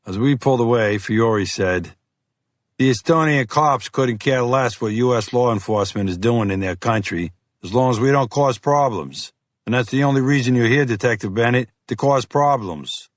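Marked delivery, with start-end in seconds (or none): 2.8-13.1 gruff FBI agent. Acted. Fiore voiced by narrator.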